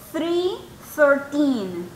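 three, thirteen said slowly with th; slow th demo. Shown as a demonstration. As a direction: model the th in both words. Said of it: "el T H es un sonidito como". (demostración lenta del sonido th)

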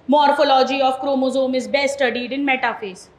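reading the statement out slowly, word by word; slow dictation. Shown as a demonstration. Teacher dictating a textbook statement, slow and deliberate. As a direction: lay out each word for the class. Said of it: "घिसा पिटा सा statement ले लेते हैं".

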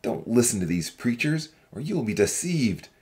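low-pitched, forceful character harangue; restrained shout of an accusing young man; shouted warning. A narrator's reading. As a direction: call out a warning without much volume. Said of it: "a young man stood up and shouted".

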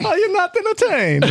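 high, hammed-up arena yell; comically strained high shout; mock gladiator cry. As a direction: imitate a gladiator crying out to the crowd. Mimicking the gladiator line for laughs.

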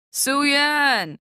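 high, loud call across the table; aunt calling out. A narrator's reading. Auntie Lindo calling to mother across the table, high call. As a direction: call her name over the dinner noise.

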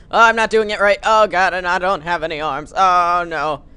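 loud, high-pitched panicked cry; mock panic. Gamer wailing over his armless rope-swing rider, mock panic. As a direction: cry out in hammed-up alarm.

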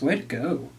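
dry, soft mock praise; understated sarcastic congrats; sarcastically quiet. Shown as a demonstration. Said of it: "Sarcastically quiet".

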